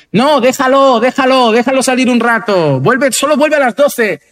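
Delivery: slows down on the curfew, indulgent parent; pleading lenient parent. Pretend. Lenient parent overriding the other.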